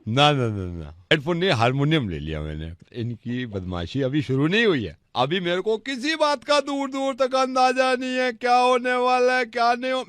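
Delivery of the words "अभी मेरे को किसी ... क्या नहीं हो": high, building suspense voice; dramatic storytelling. Acted. Prank caller hamming up his story's suspense, high dramatic voice. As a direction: spin it like a thriller.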